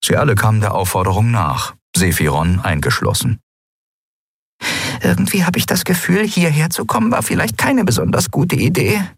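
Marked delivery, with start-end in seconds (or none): 5.0-9.0 tiny high-pitched little voice; Nelen, whispering. A narrator's reading. Nelen to Endriel from her hiding place, whispering. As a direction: whisper nervously in a small, high voice. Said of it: "wisperte Nelen in ihrem Versteck".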